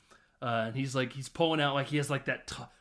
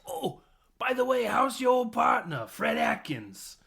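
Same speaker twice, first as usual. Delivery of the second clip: much higher, louder put-on villain; a hammed-up taunting villain; sly villain voice; 10 semitones higher, 4 dB louder than usual. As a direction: sneer the question like a smug villain.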